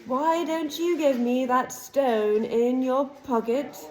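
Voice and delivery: a lightly voiced evil face, savouring each word; villain boasting to the cornered boy; menacing dark lord.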